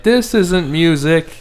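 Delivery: a hint of a grumpy old man; slow mock-cranky oldie; old person voice. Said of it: "Is that your old person voice?".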